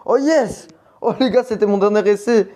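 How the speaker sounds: high excited shriek, laughing; shrieking jackpot winner. Real, not acted. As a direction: squeal with joy at the win. Last try succeeds, celebrating.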